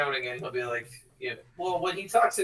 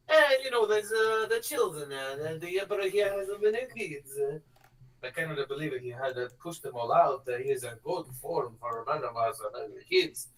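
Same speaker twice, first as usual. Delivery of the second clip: shade-throwing character. Retold or imitated. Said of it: "So it's just like".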